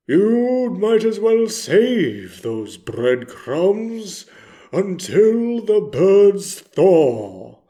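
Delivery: slowly stretched words; slow advice. Retold or imitated. Advising Orville on the breadcrumbs, slow and deliberate. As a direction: give drawn-out, deliberate advice.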